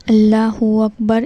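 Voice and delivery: اللہ اکبر said cleanly, each word clear; clean pronunciation. Shown as a demonstration. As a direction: model a tidy, distinct اللہ اکبر. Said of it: "صاف ستھرا بولنا ہے".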